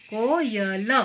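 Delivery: कोयल split slowly as को, य, ल; को... य... ल, spaced out for learners; syllable by syllable. Shown as a demonstration. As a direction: sound out each syllable of कोयल. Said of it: "देखिए कैसे जोड़ते हैं".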